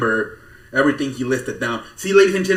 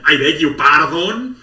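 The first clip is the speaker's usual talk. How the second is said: slow, prissy I beg you pardon; drawn-out mock-scandalised question; mock posh indignation; 4 dB louder, slower than usual. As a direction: play the offended aristocrat. Mock outrage at wrestling news.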